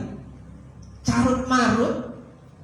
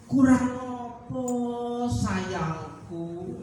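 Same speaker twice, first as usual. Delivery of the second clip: slow, drawn-out mild lament; God's loving lament; 3 dB quieter, much slower than usual. Acted. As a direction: lightly voice God pleading, trailing off softer. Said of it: "Tuhan itu ngomongnya kayak gitu". (keluhan sayang yang pelan dan panjang)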